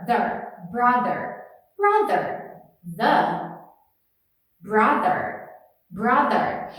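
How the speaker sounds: "brother" with the tongue between the teeth and a buzzing th; voiced th drill. Shown as a demonstration. Teacher drilling "brother" with a voiced th. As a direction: buzz the th in "brother". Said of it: "eu boto a língua entre os dentes".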